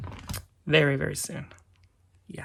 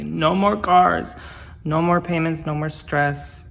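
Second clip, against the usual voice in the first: excited; 5 dB louder, slower than usual. Real, not acted. Celebrating being debt-free.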